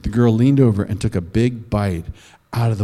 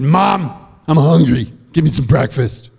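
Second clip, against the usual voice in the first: put-on whiny kid; 3 dB louder than usual. Boy asks mother for food.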